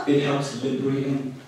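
repeating it through a laugh. Real, not acted. Speaker echoes a deaf audience member, laughing. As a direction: chuckle the words out.

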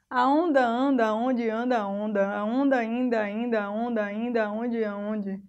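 flowing, rolling recital with linked words; poem recitation. Acted. Teacher reciting a wave poem to students, in a rolling lilt. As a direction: let the lines run on like waves.

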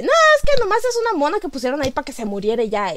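quick, dismissive mock protest; dismissive earlier self. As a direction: rattle it off as a hasty first opinion. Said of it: "Yo primero dije". (protesta rápida, restándole importancia)

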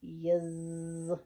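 low, small fly voice; tiny fly voice. A narrator's reading. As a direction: answer like a shy little fly. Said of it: "said the tiny voice".

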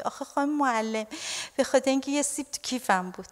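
soft, bashful little answer, lightly acted; shy schoolboy. Arthur explains himself to his maths teacher, mildly shy. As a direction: lightly voice a shy pupil, keeping it small and soft. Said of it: "خجالتی سرشو میندازه پایین".

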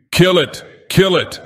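high, loud frenzied yell. A narrator's reading. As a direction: scream it in a frenzy. Frenzied savage yelling.

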